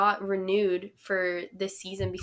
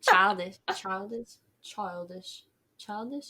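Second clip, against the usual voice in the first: put-on practising CHILDISH in a British accent, fading softer; attempted British accent; 4 dB quieter than usual. Shown as a demonstration. Podcast host failing to get CHILDISH right, British accent attempt. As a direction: try CHILDISH over and over in clumsy British. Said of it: "Can't say it".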